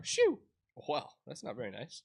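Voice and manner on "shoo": high, loud shoo; shout. Acted. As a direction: shoo them off loudly. Character shoos player away.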